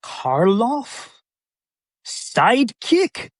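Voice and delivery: slow disbelief building to a high furious outburst; offended old actor blowing up; exploding in rage. Retold or imitated. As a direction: rise from stunned to shouting. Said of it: "he goes".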